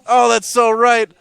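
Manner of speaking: high, drawn-out imitated approval with a smile; smiling approval. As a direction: play a pleased crowd, slow and high. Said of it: "they'll be smiling a little bit".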